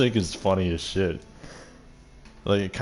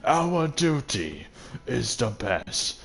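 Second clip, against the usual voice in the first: lightly voiced snooty father quoting duty; mocking pompous father; 2 semitones higher, slower than usual. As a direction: drone it out like a smug elder. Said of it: "he's just like".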